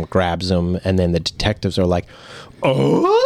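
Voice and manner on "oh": mock surprise. Detectives reacting.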